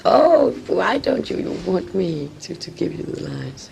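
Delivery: a hint of a hurt director begging; worried director. Director worried that the actress refuses his lines. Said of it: "So he was worried".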